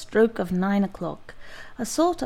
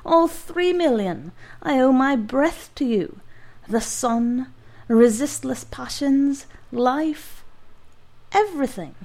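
ecstatic giant; 4 semitones higher than usual. Acted. Cured giant to his doctor, overjoyed raving.

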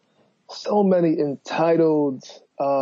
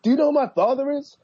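entitled rich guy; 5 semitones higher than usual. Pretend. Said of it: "I wish he was like".

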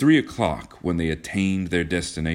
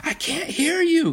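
very high, slow calling over noise; high-pitched, stretched cry; cried out; slower than usual. A narrator's reading. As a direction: call out over the bombing, drawn out. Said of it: "cried Kismine".

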